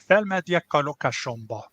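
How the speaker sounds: "felmegyek a lakásomba" said clearly as a model phrase; Hungarian pronunciation. Shown as a demonstration. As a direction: demo "felmegyek a lakásomba" for learners. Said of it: "is pronounced".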